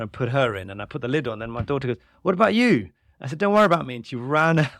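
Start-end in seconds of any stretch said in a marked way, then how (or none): 2.2-2.9 high, loud imitation of a little girl; retold child's plea, pitched up; worried daughter. Voices worried daughter in storm game. 3.4-4.0 raised, louder play-acting dad; retold heroic urging, high and loud; mock-heroic farewell. Dad's mock-heroic farewell in game.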